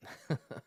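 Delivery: short, breath-only chuckle in character; soft chuckle. Acted. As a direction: chuckle quietly before speaking. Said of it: "he chuckles and he says".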